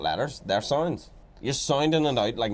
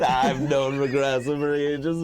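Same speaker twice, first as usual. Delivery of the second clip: bragging; slower than usual. Retold or imitated. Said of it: "He's like bragging".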